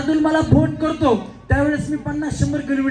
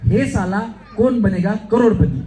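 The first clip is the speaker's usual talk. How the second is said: slow delivery of a catchphrase; easy dialogue demo; 4 semitones lower, 4 dB louder, slower than usual. Shown as a demonstration. Host demonstrating an easy line for contestants, slow dialogue delivery. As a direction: say the line slowly for others to copy. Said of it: "आता सोपा dialogue".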